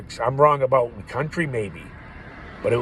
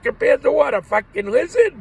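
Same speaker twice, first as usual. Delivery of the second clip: much higher, louder jeering comeback; mocking yell; 14 semitones higher, 7 dB louder than usual. Guesser firing back at the customer, mock yelling. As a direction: fire the zinger up high and loud.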